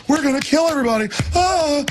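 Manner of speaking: high, fast manic glee; gleeful villain. Retold or imitated. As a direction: gloat like a mad scientist. Mocking gleeful scientists.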